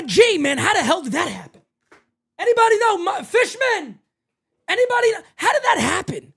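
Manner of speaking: mock clueless GM.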